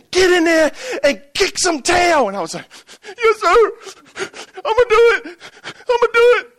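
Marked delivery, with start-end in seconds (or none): 0.1-2.3 higher, pushy coach command; coach yelling. Retold or imitated. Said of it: "the last thing I hear him say is". 3.2-6.5 put-on eager kid. Kid answering the coach.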